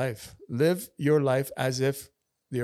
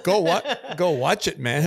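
excited urging; 5 semitones higher, 7 dB louder than usual. Real, not acted. Urging friends to watch film.

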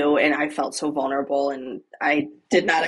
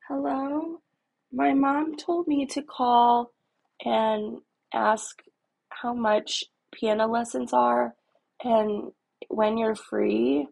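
put-on nervous kid; 5 semitones higher, slower than usual. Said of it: "like, panicky shaking".

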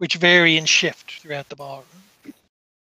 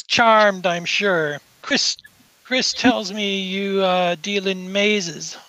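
slow, lightly haughty greeting; a touch of bored condescension in character; mildly dismissive; 3 semitones higher, slower than usual. Acted. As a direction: offer a cool, drawn-out politeness. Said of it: "sort of dismissively".

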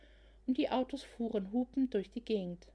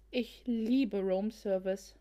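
gushing; slower than usual. Acted. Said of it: "schwärmte Olivia".

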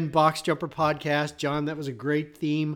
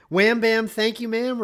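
playful; 6 semitones higher, 5 dB louder than usual. Acted. Playful suggestive question.

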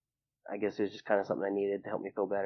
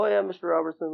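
put-on high, louder eager-to-please kids; retold agreeable answer, pitched up; imitating schoolkids; 9 semitones higher, 5 dB louder, faster than usual. Classmates answering his dad, imitated high and agreeable. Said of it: "And they go".

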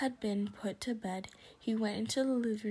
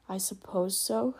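stiff. Acted. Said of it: "said Missus Dur-, Dursley stiffly".

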